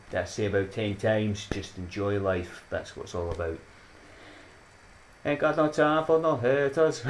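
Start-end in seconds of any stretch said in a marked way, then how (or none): 5.2-7.0 high, sassy put-on. Dismissing haters to viewers, sassy. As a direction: toss it off with attitude.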